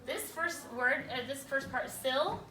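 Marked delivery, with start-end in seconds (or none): 1.9-2.4 "syllable" in three parts with long gaps between; one syllable at a time. Shown as a demonstration. Teacher writing the word in parts, "syllable" separated by long pauses. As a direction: say "syllable" piece by piece, pausing after each. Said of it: "spelling one syllable at a time".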